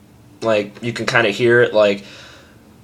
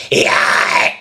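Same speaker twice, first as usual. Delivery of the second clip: weak scream demo; 3 dB louder than usual. Shown as a demonstration. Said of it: "it'll be like".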